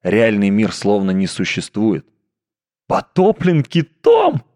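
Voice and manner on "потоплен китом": mocking philistine. A narrator's reading.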